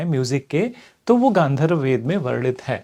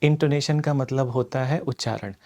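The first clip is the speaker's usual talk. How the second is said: slowed down; 3 semitones lower, 5 dB quieter than usual. Shown as a demonstration. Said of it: "अभी मैं अपनी speed को कम करता हूँ".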